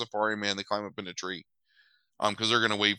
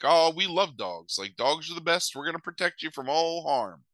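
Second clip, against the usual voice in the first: lightly voiced bikers gushing over dogs; gushing biker voices; 6 semitones higher than usual. Bikers promising to protect the buddies, in higher gushing voices. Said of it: "the bikers are like".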